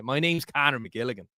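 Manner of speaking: lightly put-on Irish accent; attempted Irish accent. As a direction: have a half-hearted go at an Irish accent. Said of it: "I'm from Irish stock".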